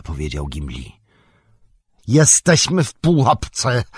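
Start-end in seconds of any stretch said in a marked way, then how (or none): 2.1-3.8 high, loud, slow cry of alarm; calling out. A narrator's reading. Gandalf warning companions they are trapped, calling out. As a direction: call it out to the group. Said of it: "zawołał Gandalf".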